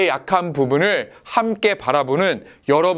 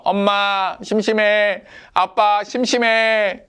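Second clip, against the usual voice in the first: put-on bored whining kid; 4 semitones higher, slower than usual. Bored child whining to parents.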